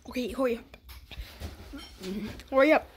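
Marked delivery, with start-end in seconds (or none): 0.1-0.8 hushed urging; whisper. Real, not acted. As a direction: breathe it out quick. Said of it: "be quiet".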